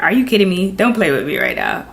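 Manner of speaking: half-shouted disbelief, peaking high at the end; yelping at the cousin in disbelief; mock scream. Retelling yelling at her cousin over the phone, mock scream. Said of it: "kinda, like, screamed".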